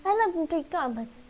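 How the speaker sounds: a hint of a theatrical mouse; fussy mouse voice. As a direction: play the dramatic little mouse begging heroes for help. Game master voices the mouse.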